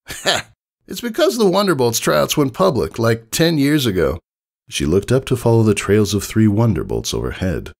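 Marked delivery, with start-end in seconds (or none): 0.1-4.2 high, cocky tomboy voice; high brash tomboy pony; brash pegasus. Acted. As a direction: play the confident young flyer explaining. Rainbow Dash voiced in story.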